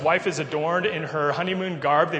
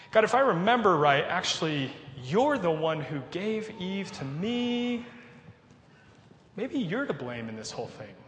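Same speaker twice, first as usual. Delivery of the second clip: acted blame-shifting. Adam turns the blame on God, mock-tentative accusing. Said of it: "Adam says on top of that".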